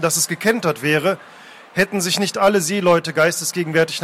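measured, dramatic reading aloud; story narration. A narrator's reading. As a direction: narrate the sea chase with deliberate pauses. Reads a novel scene aloud.

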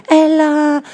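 high, loud alarmed cry; shouting a name. Acted. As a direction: yell her name as she falls. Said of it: "Sue schrie".

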